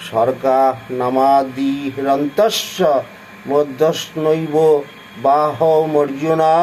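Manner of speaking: measured Sanskrit verse recitation; scripture recital. Acted. Reading the Gita verse to listeners, in measured recital. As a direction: recite the shloka with care.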